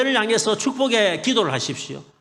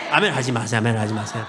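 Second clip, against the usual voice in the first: laughing; 11 semitones lower than usual. Real, not acted. Joking request not to say amen.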